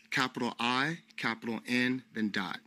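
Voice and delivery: spelling it out letter by letter, rising; dictating. Shown as a demonstration. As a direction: dictate each capital clearly. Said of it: "the N hostel works".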